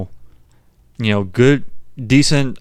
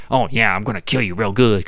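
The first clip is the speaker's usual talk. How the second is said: lightly voiced Jersey mobster accent. Mimicking the film's voice change, light Jersey mobster. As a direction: put on a mild Jersey wiseguy voice. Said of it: "mobster from, like, Jersey".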